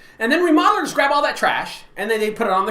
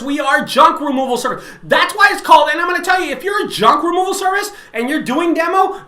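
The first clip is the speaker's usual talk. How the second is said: louder, higher, heated lecture; heated rant; 4 semitones higher, 4 dB louder than usual. Real, not acted. Scolding junk removal owners in a raised, higher voice. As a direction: hammer the point home to rivals.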